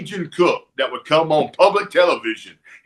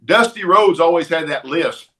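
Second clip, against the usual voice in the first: excited; 3 semitones higher than usual. Retold or imitated. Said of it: "and I go".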